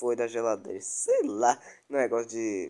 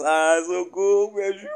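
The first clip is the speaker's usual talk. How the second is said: being chased; 5 semitones higher, 8 dB louder than usual. Real, not acted. Still fleeing the monster.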